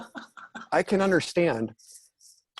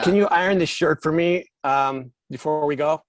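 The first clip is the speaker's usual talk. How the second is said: mock request; 3 semitones higher, 4 dB louder than usual. Acting out asking Phil a favour.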